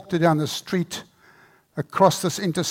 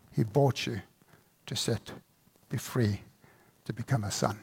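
tender altar call; 3 semitones lower than usual. Acted. Closing appeal of sermon.

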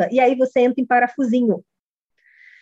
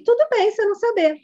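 welcoming reassurance; 3 semitones higher than usual. Shown as a demonstration. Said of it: "Aí você fala assim".

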